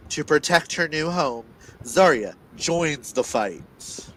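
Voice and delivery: dramatic blurb reading with weighty pauses; dramatic telling. Acted. Reader performing the book synopsis aloud for listeners, dramatic. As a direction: read it like a movie trailer. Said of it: "you can't hear the reader's dramatic telling".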